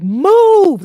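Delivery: high, long, very loud yell. Retold or imitated. Runner clearing phone-gazing walkers out of the way, yelling. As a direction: holler it out, stretching the vowel. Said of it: "like, I was yelling".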